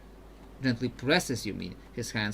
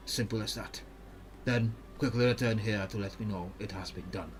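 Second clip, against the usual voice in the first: put-on careful, even-toned Ionian accent; Mirim, Ionian accent; 2 semitones lower, 5 dB quieter than usual. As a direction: explain the mission in a measured Ionian accent. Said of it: "so much talking with, with this guy".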